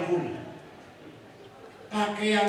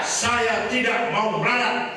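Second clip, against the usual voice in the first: slow, louder chant line; call to repeat; 4 semitones higher, 4 dB louder, slower than usual. Shown as a demonstration. Kiai leading the congregation in a chant, slow loud. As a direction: lead the crowd in the vow. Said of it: "Ayo bunyi bareng".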